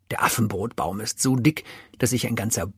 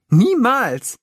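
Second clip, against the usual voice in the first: lauter, hoher Schluchzer-Aufschrei; schluchzend; 12 semitones higher, 7 dB louder than usual. A narrator's reading. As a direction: schluchz es heraus. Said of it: "schluchzt der Elefant los". (schluchzendes Niemals)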